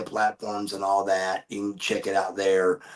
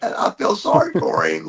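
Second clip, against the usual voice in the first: imitating his girlfriend; 12 semitones higher, 3 dB louder than usual. Girlfriend reacting to the hurt friend, high whispered pity. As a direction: play her breathless pity in a whisper. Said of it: "she's like".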